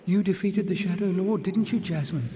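put-on high, eager young voice; excited girl. Little sister excitedly telling Jasmine of the victory. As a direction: rush it out excitedly. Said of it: "the voice was excited now".

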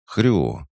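high little piglet grunt; piglet oink. A narrator's reading. Piglet nudging the hero's leg, a high oink. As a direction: oink like a small pig. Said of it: "он ещё раз боднул мою ногу".

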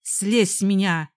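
loud demand to get off; shouted. Acted. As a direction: shout it at him. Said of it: "закричала я".

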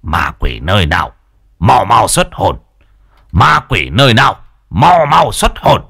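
exorcist's chant, rising as it repeats; muttered incantation. A narrator's reading. Healer commands the spirit to leave, muttered chant building. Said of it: "miệng lẩm bẩm".

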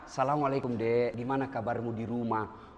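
low, soft check-in with a junior; easy, kindly senior's hello; friendly greeting. Acted. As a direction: greet them gently, voice kept down. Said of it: "Tegur aja gitu".

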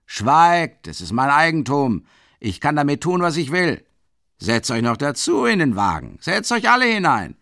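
put-on loud, high drunken roaring; furious roar. A narrator's reading. Mikolka roaring at the crowd that the horse is his, furious. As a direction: silence them with rage.

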